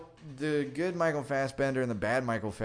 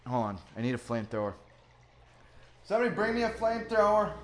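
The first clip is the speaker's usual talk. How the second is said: panicked yelling; 7 semitones higher than usual. Pretend. Captain yells to the crew for a flamethrower, frantic.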